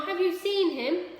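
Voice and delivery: high, loud urgent question; Ma begging for news of her son; pleading high and loud; eager cry. A narrator's reading. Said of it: "cried Ma".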